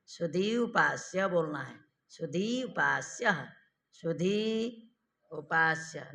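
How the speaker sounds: सुधी and उपास्य said with a gap between; words split apart. Shown as a demonstration. Teacher showing the split version of सुधी उपास्य. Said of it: "ऐसे बोलेंगे तो संहिता नहीं होगा".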